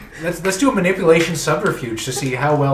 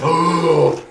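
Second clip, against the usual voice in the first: crowd gasp; 2 semitones higher, 3 dB louder than usual. Shown as a demonstration. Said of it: "and this gasp".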